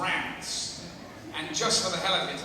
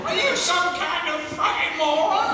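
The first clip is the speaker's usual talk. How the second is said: mock exasperation; 9 semitones higher, 6 dB louder than usual. Mocking the questioner.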